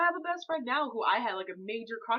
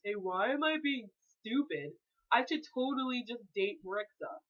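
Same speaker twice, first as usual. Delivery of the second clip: a hint of a lowered guy voice. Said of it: "That's my guy voice".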